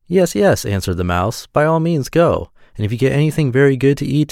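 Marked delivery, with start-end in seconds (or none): 0.1-0.7 high-pitched little mouse replying; high, eager assent; agreeable mouse. A narrator's reading. Mouse agreeing eagerly in fairy tale. 1.5-4.3 high-pitched storybook mouse; lightly voiced obliging mouse; agreeable mouse. A narrator's reading. Mouse agreeing in fairy tale.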